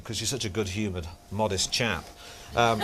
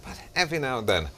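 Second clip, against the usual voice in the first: Terry Wogan; 5 semitones lower than usual. Shown as a demonstration. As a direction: go up and down, sinking right down. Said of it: "so when you do Terry Wogan".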